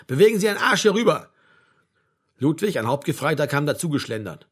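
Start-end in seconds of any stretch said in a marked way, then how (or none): 0.1-1.3 loud, higher drill-sergeant yell; bellowed order. A narrator's reading. Sergeant major to the idle bus driver, bellowing. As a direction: yell to get him moving. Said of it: "brüllte der Hauptfeldwebel ihn an".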